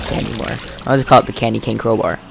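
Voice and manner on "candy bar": giggling through the words; laughing. Real, not acted. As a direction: laugh at your own slip. Laughs at own slip.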